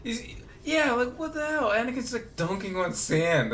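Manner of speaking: incredulous rant. Retold or imitated. Ranting about Anakin and sand.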